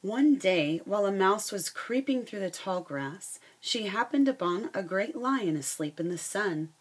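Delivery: lively read-aloud storytelling voice; reading a picture book to the class; story narration. A narrator's reading. Teacher reading a fable to her students, lively storytelling.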